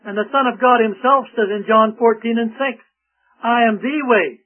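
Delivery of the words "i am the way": "the" stressed as a full "thee". Retold or imitated. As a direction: lean on "the" to mean the only one. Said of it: "not one of the ways".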